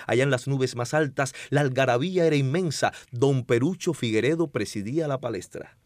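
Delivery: dramatic poetry recital; hammy stage actor. Shown as a demonstration. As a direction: declaim it like a stage poet. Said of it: "declamando una poesía bellísima".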